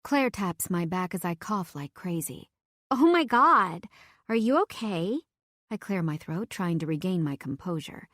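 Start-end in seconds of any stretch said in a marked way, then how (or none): 2.9-5.2 alarmed. Acted. Friend alarmed by choking.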